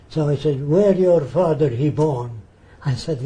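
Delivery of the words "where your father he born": slow, lightly put-on Arab-accented English; imitated broken English. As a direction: imitate a foreigner piecing the question together slowly. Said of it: "That's all he can say".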